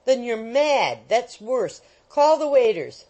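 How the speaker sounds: loud furious order; angry old man. A narrator's reading. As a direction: shout for the waiters. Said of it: "said the old gentleman".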